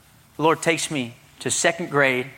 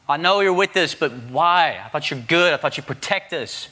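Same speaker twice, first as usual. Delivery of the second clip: pleading frustration; 3 semitones higher than usual. Retold or imitated. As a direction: press God for answers, hurt. Angry pleading prayer.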